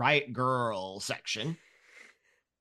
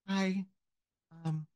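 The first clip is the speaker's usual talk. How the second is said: put-on higher, sweet little-girl voice; a little girl preaching to strangers, higher and eager; ten-year-old girl; 3 semitones higher than usual. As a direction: play an earnest child handing out Bibles. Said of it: "ten-year-old girl walks up to you".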